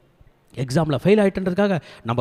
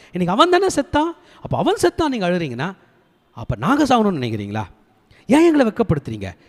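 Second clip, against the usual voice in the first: indignant questioning of a king; acted rebuke; 4 semitones higher than usual. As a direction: confront him with exasperated questions, voice jumping up. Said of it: "தாவீது ராஜாவை கண்டிப்பதற்காக". (ஆதங்கத்தோடு கண்டித்துக் கேட்பது போல)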